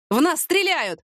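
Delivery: high-pitched, contained cry; urgent warning without full volume; shouting in alarm. A narrator's reading. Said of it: "продолжал он кричать". (сдержанный тревожный крик)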